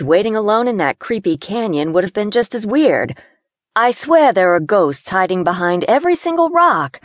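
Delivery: complaining in a tight space; lightly voiced nervous Gina.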